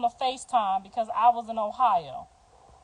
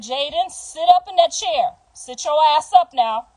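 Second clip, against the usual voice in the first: firm, raised mother's order; stern command; 3 semitones higher, 5 dB louder than usual. Retold or imitated. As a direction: bark it like a stern mom. Mother ordering daughter in labor.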